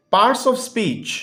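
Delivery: slowly spelled-out textbook heading for pupils; slow dictation. Shown as a demonstration. Teacher reading the heading to the class, very slowly. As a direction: read it out word by word, very slowly.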